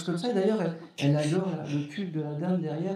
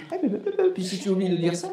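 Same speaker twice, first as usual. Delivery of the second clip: bossy mother voice; 4 semitones higher, faster than usual. Retold or imitated. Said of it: "Puis elle fait".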